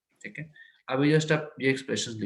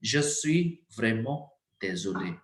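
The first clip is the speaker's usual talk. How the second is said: slow model sentence; much slower than usual. Shown as a demonstration. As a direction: dictate slowly, trailing off. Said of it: "starting page हमारा expression". (धीरे बोलो, अंत धीमा)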